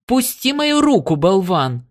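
high, piercing angry protest; piercing woman's voice. A narrator's reading. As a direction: cry out sharply, pitch shooting up. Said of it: "прорезал пронзительный женский голос".

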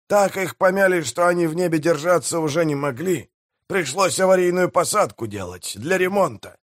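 high-pitched mayor telling a juicy secret; scheming pirate mayor. Acted. Pirate mayor lets his crew in on news, high-pitched relish. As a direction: spin the tale in a high character voice.

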